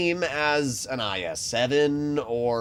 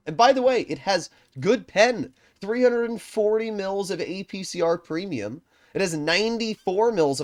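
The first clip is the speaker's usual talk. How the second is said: worked-up rant; 10 semitones higher, 6 dB louder than usual. Real, not acted. Ranting about overpowered tank.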